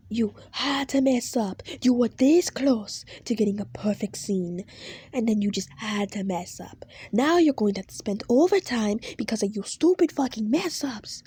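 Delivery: loud, bitter scolding; scolding boss. Acted. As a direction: berate her for the mistake. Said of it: "he says to you".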